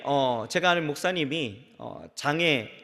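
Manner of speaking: ordinary delivery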